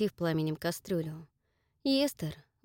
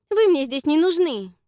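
high and loud; a loud, hurt rejection; angry rejection; 10 semitones higher, 9 dB louder than usual. Acted. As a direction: push him away. Dakota rejects Jack.

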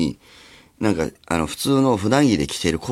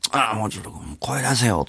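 whispered thought. Retold or imitated. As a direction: whisper it to yourself from the stands. Inner thought while watching kids. (心の中でささやくように)

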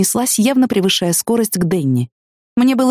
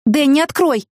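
shouting through door; 8 semitones higher, slower than usual. Acted. Pounding on locked door.

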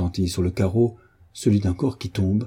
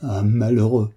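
slow horrified question, then mild reproach; shocked exclamation; slower than usual. A narrator's reading. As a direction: let the shock sink in word by word. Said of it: "s'écria-t-elle".

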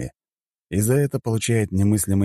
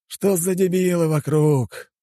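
slow, high, sighing complaint; heavy exasperation; 12 semitones higher, slower than usual. A narrator's reading. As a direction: draw it out, fed up with everyone. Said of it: "тяжело вздохнул он". (тягучее, усталое раздражение)

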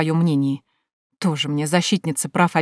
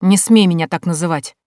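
loud, offended warning; indignant, stung rebuke; angry and hurt; 6 dB louder than usual. Acted. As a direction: forbid it with wounded pride. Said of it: "В гневном голосе дядюшки прозвучала обида".

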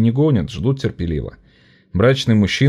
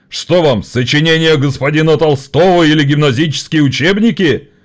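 condescending gentleman; 6 semitones higher, 5 dB louder than usual. Acted. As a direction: talk down to workers. (высокомерно)

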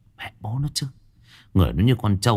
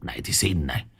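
mocking rage; 8 semitones higher than usual. A narrator's reading. Phong stomping the fat boy, furious taunting. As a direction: taunt him, rising to a high furious yell. Thug kicking while taunting.

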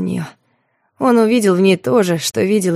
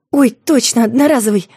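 suddenly remember with a start; surprised; 4 semitones higher than usual. Acted. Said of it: "удивлённо хлопает глазами". (удивлённо вспоминает)

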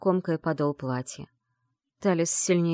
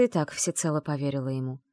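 usual speaking voice

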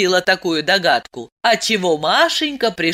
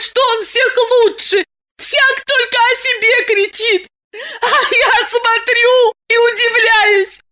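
sobbing tirade; 4 dB louder than usual. Acted. Masha raging at the city before Diana, high sobbing shout. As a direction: rant against the city through sobs. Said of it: "с новой силой залилась слезами".

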